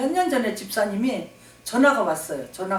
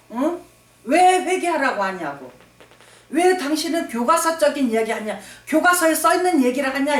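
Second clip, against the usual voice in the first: indignant, raised voice demanding why; angry complaint; 4 semitones higher than usual. Retold or imitated. Deacon angrily confronting the pastor on the phone, indignant. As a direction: protest like an offended deacon. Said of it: "이 집사님 막 화가 났어요".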